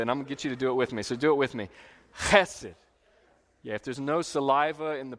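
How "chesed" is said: Chesed with a spitty rasped ch; spitting chesed. Shown as a demonstration. Leading the congregation to say Chesed with a spitty rasped ch. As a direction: spit the ch of Chesed, loud. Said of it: "you gotta spit a little bit".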